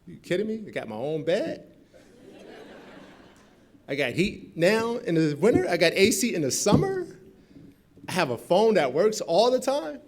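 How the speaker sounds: loud, high, overjoyed voice; thrilled freshman. Retold or imitated. New student boasting about dorm comforts, loud thrilled voice. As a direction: rave about every luxury.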